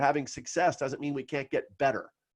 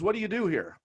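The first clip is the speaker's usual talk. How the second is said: mentor's voice; 7 semitones higher than usual. Retold or imitated. Retelling mentor's question.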